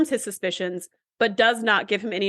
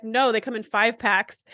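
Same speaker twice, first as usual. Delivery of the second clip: insistent correction; slower than usual. Retold or imitated. Retold argument, insisting on point.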